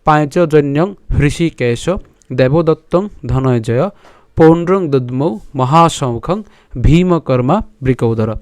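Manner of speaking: measured, chanted reading of a Gita verse; Sanskrit verse recitation. Shown as a demonstration. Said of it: "আমি যদি আরেকবার বলি আপনাদেরকে".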